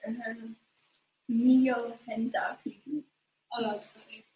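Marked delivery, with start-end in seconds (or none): 1.3-2.6 slow, drawn-out fake Mandarin words "Mio henda"; "Mio henda" slowly and unsure, like faking Chinese; made-up Mandarin. Shown as a demonstration. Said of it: "say something for us in Mandarin".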